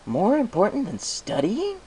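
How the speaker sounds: a little dragon quoting orders; Spike's voice. Acted. Spike in disbelief.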